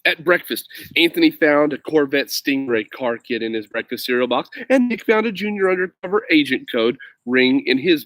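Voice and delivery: lively picture book read aloud; story reading. A narrator's reading. Reading Alexander's story aloud to young viewers, lively. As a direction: read it like to kids at bedtime.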